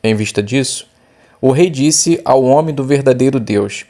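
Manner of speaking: measured Bible reading voice; scripture reading. Acted. Teacher reading the Bible text aloud to the class, measured. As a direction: read the passage clearly and evenly.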